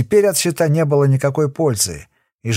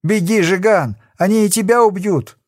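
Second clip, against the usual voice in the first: wounded man warns his friend to flee; urgent shout; 6 semitones higher than usual. A narrator's reading. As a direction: yell at him to run. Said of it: "закричал".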